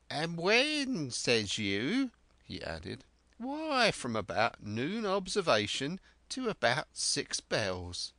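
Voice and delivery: put-on high, eager old castaway voice; an excitable marooned sailor rambling on; Ben Gunn. Marooned sailor telling Jim of Flint, eager and high.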